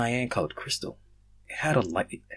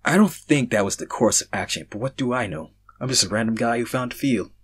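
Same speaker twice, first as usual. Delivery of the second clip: deadpan; 2 semitones higher than usual. Acted. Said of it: "I said, deadpanning".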